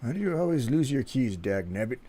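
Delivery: drawling grizzled prospector voice; cranky old miner grumbling. Acted. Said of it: "Why do you always sound like an old prospector".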